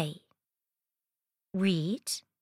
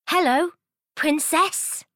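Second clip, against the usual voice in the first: high, loud frog voice; cheery frog greeting; 7 semitones higher, 3 dB louder than usual. A narrator's reading. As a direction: greet her like a jolly frog. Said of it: "He says".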